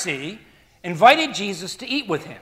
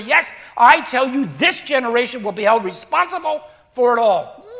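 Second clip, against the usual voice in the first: forceful scripture preaching; 4 dB louder than usual. Acted. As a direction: thunder out Jesus' rebuke to the Pharisees. Preacher reads the woes.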